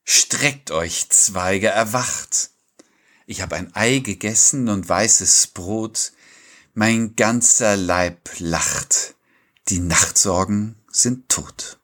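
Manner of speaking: slow, measured poetry reading; poem recitation. Acted. Co-host opens the episode with a morning poem, slow recitation. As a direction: recite it line by line, letting pauses stand.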